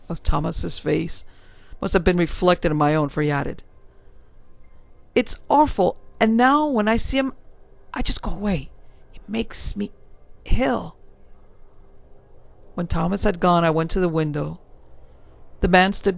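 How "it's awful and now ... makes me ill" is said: lightly voiced Cockney servant, a touch higher; a hint of a respectful London bellboy; young servant answering his gentleman in a light Cockney. Thomas adds.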